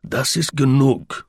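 slow, stern German; German line. Acted. Slingsby in his best German to the prisoner, stern. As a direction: say it like a Prussian officer. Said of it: "collect his best German".

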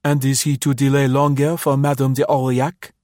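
mechanical recital. Acted. Orderly relays the captain's question, reciting mechanically. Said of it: "he recited mechanically".

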